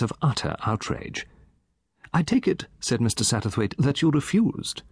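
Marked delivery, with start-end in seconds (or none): 2.1-2.7 lightly raised, eager gossip voice; a chatty old gentleman relishing his tale; Satterthwaite. Acted. 3.8-4.8 lightly raised, eager gossip voice; a chatty old gentleman relishing his tale; Satterthwaite. Acted.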